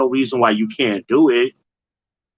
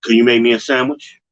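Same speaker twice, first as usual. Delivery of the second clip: plain; 5 dB louder than usual. Retold or imitated. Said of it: "you look over at him and go".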